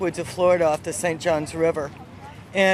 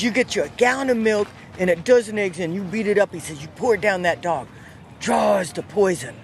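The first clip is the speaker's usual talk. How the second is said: lightly voiced old Southern man, slowing at the end; a hint of a backwoods Florida man giving a remedy. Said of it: "I have to speak like him".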